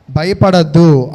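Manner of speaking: steady them, slowly and firmly; firm reassurance. Retold or imitated. The Lord calming his frightened disciples, slow and firm. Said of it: "యేసుక్రీస్తు ప్రభువారు గట్టిగా".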